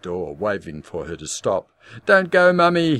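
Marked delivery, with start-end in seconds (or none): 2.1-3.0 high, loud desperate scream. A narrator's reading. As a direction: scream to make her stay. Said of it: "he screamed".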